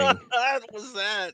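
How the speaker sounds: slow, stretched surfer dude drawl; laid-back dude voice, drawn out. Acted. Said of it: "that surfer dude voice".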